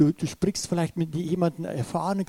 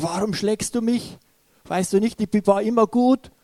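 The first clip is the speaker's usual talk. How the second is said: talking donkey; 4 semitones higher than usual. Retold or imitated. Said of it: "dass der Esel zum Sprechen anfängt".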